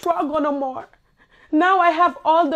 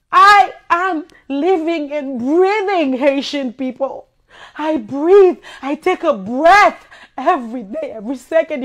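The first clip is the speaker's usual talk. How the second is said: loud emotional outburst; 6 dB louder than usual. Real, not acted. Emotional outburst to Haitian people.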